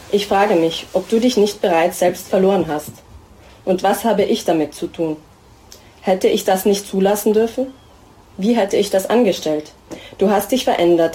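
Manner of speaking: steady, even literary reading voice; prose reading. Acted. Author reading her pregnancy text to the audience, steady. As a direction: read the text calmly, addressing the other you.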